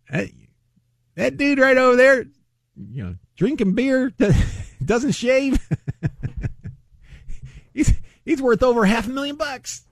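high-pitched giggling through the words; laughing while talking. Real, not acted. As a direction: squeeze the words out between laughs. Laughing at his own joke.

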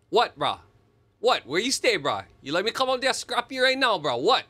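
re-enacted furious Hawaiian pidgin tirade; retold angry outburst. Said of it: "I lost my, I just lost it".

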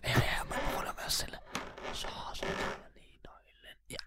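whispering. Acted. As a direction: whisper while easing the key off. Taking key off sleeping mayor.

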